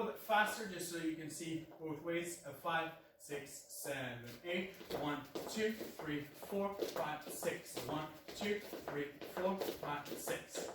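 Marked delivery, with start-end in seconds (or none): 2.5-10.7 slow, steady dance count. Shown as a demonstration. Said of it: "first slow".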